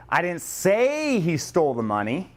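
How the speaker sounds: hint it was only implied, stressing say. Shown as a demonstration. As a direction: say lifted and held. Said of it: "I implied it".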